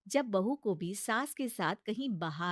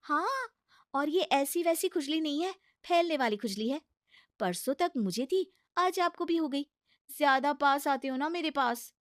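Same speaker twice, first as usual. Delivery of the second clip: higher, coaxing bahu voice; pleading daughter-in-law; 6 semitones higher, 3 dB louder than usual. Acted. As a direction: talk sense into a stubborn mother-in-law. Bahu schemes about itch. (ऊँची, मनाती हुई बहू की आवाज़)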